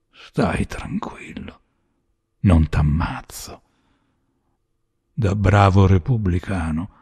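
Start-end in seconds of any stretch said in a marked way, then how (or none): 0.1-3.6 slow, hushed, half-whispered; drawn-out, subdued assurance; quiet reassurance. Acted. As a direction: let him off softly and slowly. Gunman relents with cold scorn.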